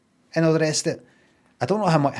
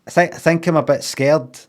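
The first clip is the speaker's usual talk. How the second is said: scared; 4 semitones higher, 5 dB louder than usual. Retold or imitated. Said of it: "He said something like".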